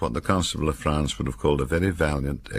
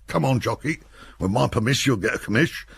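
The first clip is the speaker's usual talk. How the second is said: higher, cocky soldier's quip; jaunty Parker; 10 semitones higher than usual. A narrator's reading. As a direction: rib your mate as you climb out.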